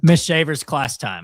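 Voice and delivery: high, loud, slow teacher voice; sing-song teacher announcement. Pretend. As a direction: announce class time like a schoolteacher. Mock teacher announcing class.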